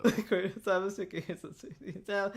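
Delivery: quiet laugh through the words. Real, not acted. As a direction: giggle the line out. Repeating line laughing.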